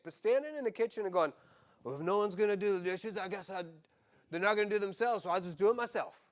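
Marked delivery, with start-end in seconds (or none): 1.8-6.2 passive-aggressive. Retold or imitated. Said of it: "That type of passive-aggressive".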